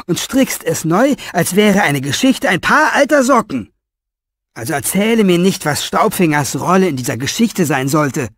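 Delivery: high, loud furious rant; tearing into him, pitch way up; angry old author. A narrator's reading. Old author scolding Orpheus, furious.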